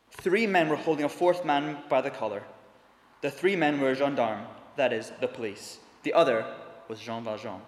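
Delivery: measured storytelling read from a novel; dramatic reading of a story passage in a sermon. A narrator's reading. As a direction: read it like a preacher sharing a classic.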